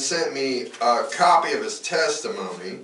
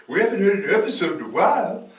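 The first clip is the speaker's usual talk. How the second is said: higher, quick imitation of miffed fans; mock annoyed complaint; 7 semitones higher, faster than usual. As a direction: imitate viewers whining in protest. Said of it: "And they were pissed".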